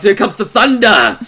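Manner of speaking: hyped announcement, not yet full volume; building hype. Real, not acted. Streamer bracing for the heroine's retort, rising hype. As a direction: start building the excitement.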